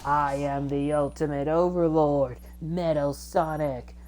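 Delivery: slow, lightly voiced villain boast; Metal Overlord. Game fan acts out the villain's boast, slow and drawn out. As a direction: stretch out the grand declaration. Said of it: "Metal Overlord goes".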